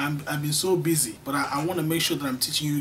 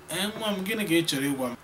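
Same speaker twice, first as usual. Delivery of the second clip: mother's reply; 2 semitones higher, much faster than usual. Acted. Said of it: "Your mother will respond".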